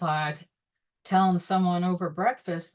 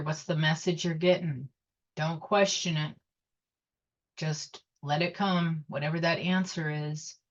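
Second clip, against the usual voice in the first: guided meditation. Acted. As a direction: hush them into a calm breath. Leads a meditation.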